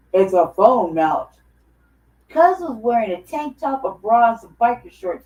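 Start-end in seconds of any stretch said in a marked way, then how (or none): 0.1-1.3 deepest possible bass, very deep, low man's voice. Retelling what a stranger on a train said: imitating a very deep voice. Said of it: "in this voice".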